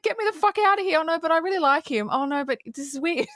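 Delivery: a hammed-up flustered Marian; Marian's torn inner voice. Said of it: "she's just like".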